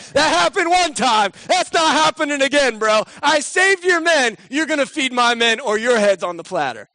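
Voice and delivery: mean it, fists up; angry threat. Retold or imitated.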